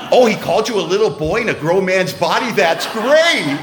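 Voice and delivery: loud, laughing delight; gleeful sister. Retold or imitated. Sister loving the sponsor's insult, laughing out loud. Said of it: "She goes".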